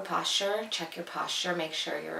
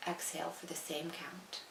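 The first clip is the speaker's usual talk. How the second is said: soft breathing cues, trailing quieter; guided meditation; 10 dB quieter than usual. Acted. Handing listeners their own breathing pace, soft and calm. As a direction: guide the breath gently, phrase by phrase.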